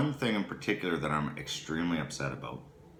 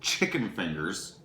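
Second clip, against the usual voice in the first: retold outrage, slow and higher; mad disbelief; 5 semitones higher, much slower than usual. Husband retells what he found in his burger, mad. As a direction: drag out each word in indignant disbelief. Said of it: "Oh, I was mad".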